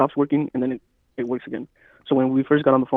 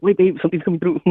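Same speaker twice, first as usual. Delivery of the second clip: higher-pitched, excited heads-up; retold urgent alert; 5 semitones higher, 4 dB louder than usual. Telling babe something is coming through, mildly urgent alert. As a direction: call out as if catching a sound just arriving.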